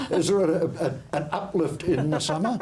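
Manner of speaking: asked through giggles; laughing question. Real, not acted. Laughing while asking Tina.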